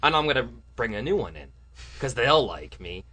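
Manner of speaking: loud, mock sulky refusal; petulant politician. Leader refusing to be kicked out, mock petulant. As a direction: act out a sore loser storming off. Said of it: "and he went".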